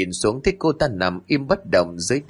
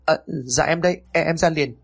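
hurried answer, pitched up; flustered reply; 6 semitones higher than usual. A narrator's reading. Wife answers husband waiting at the gate, flustered. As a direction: stammer an anxious reply.

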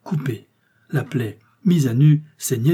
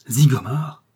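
louder incredulous rising cry; astonished question; 4 dB louder, slower than usual. A narrator's reading. Onlookers exclaim in disbelief at the revelation. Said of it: "s'écria-t-on".

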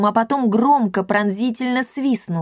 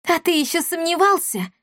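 frowning retort; 9 semitones higher than usual. A narrator's reading. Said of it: "нахмурилась Дарина".

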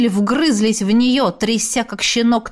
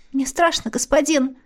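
put-on frightened girl; 5 semitones higher than usual. Scared girl pleads.

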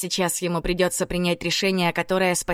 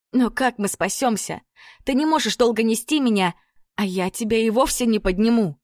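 higher worried pleading; anxious pleading; 4 semitones higher than usual. Acted. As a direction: pitch it up with worry. Lilya frightened, high.

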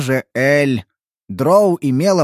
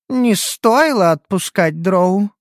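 remorseful; 5 semitones higher, slower than usual. Acted. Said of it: "в её тоне почудилось раскаяние".

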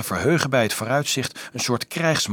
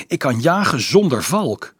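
higher, louder gleeful boast; happy; 6 semitones higher, 5 dB louder than usual. A narrator's reading. Little archer boasting of hunting without falcon, happy. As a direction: boast like an eager boy. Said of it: "zei hij blij".

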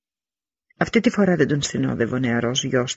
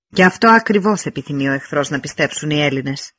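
loud, easy, imposing address to the troops; rally the brothers before battle; king urging his men to stand; commanding king's speech; 2 semitones higher, 3 dB louder than usual. Acted. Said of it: "η φωνή του ακουγόταν άνετη, δυνατή και επιβλητική".

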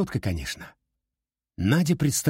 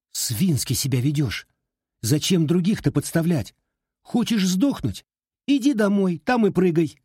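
raised voice; 8 semitones higher than usual. A narrator's reading. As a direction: scold her harder with every line. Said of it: "Надя повысила голос".

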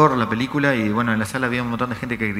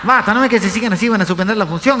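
high, loud mock outburst; retold shout; 8 semitones higher, 5 dB louder than usual. Woman warning the quarrelling audience, high mock shout. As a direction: imitate a woman yelling a warning. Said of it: "gritó otra mujer".

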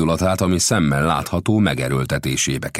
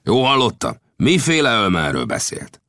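eager, higher and a bit louder; excited; 9 semitones higher, 4 dB louder than usual. A narrator's reading. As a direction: press him for the answer. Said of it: "fordult hozzá Lang izgatottan".

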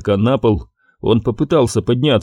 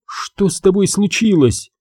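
high, frightened cry to the fallen man; alarmed cry; 9 semitones higher than usual. A narrator's reading. Кассандра in alarm cries out to fallen Гарри. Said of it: "вскричала Кассандра".

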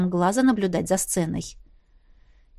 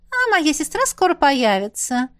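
higher, purring coquetry; 6 semitones higher than usual. A narrator's reading. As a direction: purr it sweetly. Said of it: "промурлыкала Аварилиан". (мурлычущим тоном, повыше)

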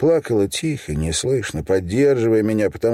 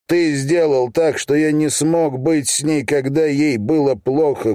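rasping rage; 6 semitones higher than usual. Acted. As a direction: spit it into his face, choking with anger. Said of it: "прохрипел прямо ему в лицо".

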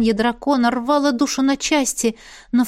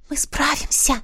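whisper; 5 semitones higher than usual. Acted. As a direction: whisper it close and sure. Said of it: "прошептала я".

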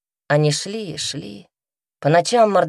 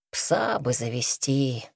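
low, slow muttering to himself; 4 semitones lower, 5 dB quieter, slower than usual. A narrator's reading. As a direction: grumble it under the breath, slowly. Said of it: "иногда бормотал хозяин".

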